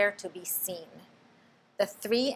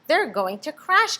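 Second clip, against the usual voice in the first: gasping; 8 semitones higher, 6 dB louder than usual. A narrator's reading. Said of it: "gasped Stellaluna".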